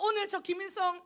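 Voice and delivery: loud, high prophetic decree, drawn out slowly; mock proclamation. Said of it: "선포했어".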